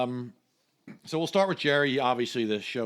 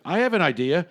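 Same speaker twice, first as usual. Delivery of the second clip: louder, higher mock pushy; Jerry turning it around; 4 semitones higher, 4 dB louder than usual. Jerry answering the telemarketer, louder mock pushy. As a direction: turn the pitch back on him. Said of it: "Jerry, on the phone".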